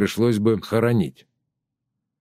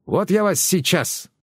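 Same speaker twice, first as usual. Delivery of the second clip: higher, slow menacing threat; threatening old woman; 8 semitones higher than usual. A narrator's reading. Tereza threatens the children with nettles, higher and menacing. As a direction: scare the kids off with it.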